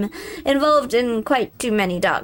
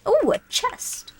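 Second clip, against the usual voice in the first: excited; 7 semitones higher than usual. Real, not acted. Greedy at finding a chest.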